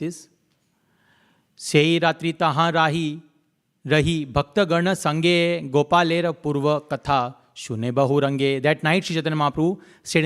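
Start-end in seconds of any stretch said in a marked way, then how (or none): 1.6-8.6 slow, measured chanting of the verse; scripture recitation. Acted. Preacher recites the verse to the congregation, slow and chanted. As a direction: intone the Bengali verse deliberately, line by line.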